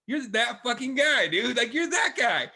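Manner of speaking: loud, high, hyped-up disbelief; mock amazed shout. Friends staring at the wild guy, mock amazed shout. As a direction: hype him up like a stunned buddy.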